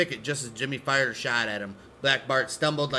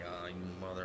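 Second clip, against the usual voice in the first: mock bitter mutter; 7 semitones lower, 17 dB quieter, much faster than usual. Betrayed husband muttering.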